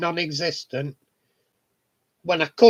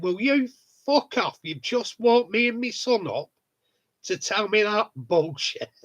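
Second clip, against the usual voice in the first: brusque telling off; 4 semitones higher than usual. Retold or imitated. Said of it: "he's brusque, me neighbour".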